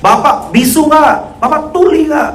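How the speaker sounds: preacher yelling at a congregant, imitated; retold yelling. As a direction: hammer each question at him. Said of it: "sutradara masuk lagi teriak-teriak gitu".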